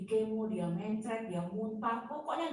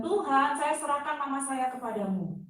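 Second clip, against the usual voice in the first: tearful prayer, retold; 3 semitones higher, 4 dB louder than usual. Daughter surrenders her dying mother to God, retold tearful prayer. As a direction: call out to Tuhan as if praying through tears. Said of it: "saya berdoa sambil nangis".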